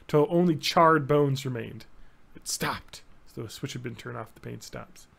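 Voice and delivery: reading the passage with rising intensity, then hushed; dramatic book reading. Acted. Host reads the Dune pain scene to cohost, dramatic reading. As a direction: read it like the climax of a novel.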